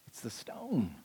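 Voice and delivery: breathy hushed whisper. Shown as a demonstration. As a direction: lean in and whisper it. Preacher whispers the point.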